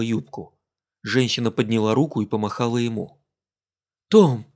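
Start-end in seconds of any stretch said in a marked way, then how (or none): 4.1-4.4 calling out. Acted. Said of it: "она окликала его по имени".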